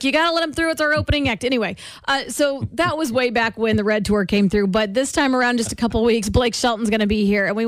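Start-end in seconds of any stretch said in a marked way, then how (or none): 0.0-1.4 mock insistent mom. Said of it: "she was like".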